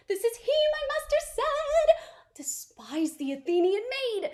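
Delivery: hushed unvoiced whisper; secretive fairy whisper. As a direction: whisper it so the sleepers stay asleep. Puck spies the sleepers.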